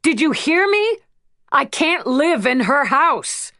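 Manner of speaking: put-on high, tearful plea from a girl; a pleading teenage girl; upset teen pleading. A narrator's reading. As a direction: beg with rising desperation.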